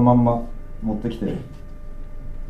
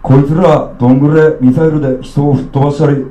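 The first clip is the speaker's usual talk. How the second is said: a tipsy Okayama uncle holding forth in thick local dialect. Acted. Drunk Okayama uncle lecturing a child, coarse Okayama dialect. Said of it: "岡山弁のブロー・イン・ザ・ウィンド".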